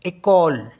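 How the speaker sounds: एकोल starting with a clear e; French école. Shown as a demonstration. Teacher modeling French école. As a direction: say एकोल, stress even. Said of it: "इसे पढ़ेंगे एकोल".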